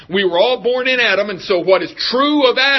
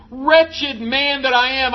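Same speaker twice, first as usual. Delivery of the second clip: higher, slow anguished plea; mock despair raised up high; anguished cry; 4 semitones higher than usual. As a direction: lift it into a pained slow cry. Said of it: "Paul just vents out".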